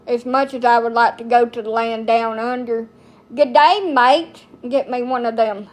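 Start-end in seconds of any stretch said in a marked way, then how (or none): 3.3-4.4 quick mock Australian greeting; a playful Aussie "Good day, mate"; cheerful fake Australian hello; mock Australian accent. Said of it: "Australian men that's got that accent".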